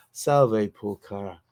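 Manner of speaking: low masculine murmur, lightly voiced; Tito. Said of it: "this low masculine voice, uh, murmuring".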